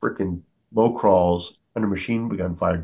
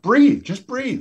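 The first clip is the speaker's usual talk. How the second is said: much higher, slow, drawn-out breathe; steady a panicking soldier; calm command; much slower than usual. Retold or imitated. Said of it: "I said".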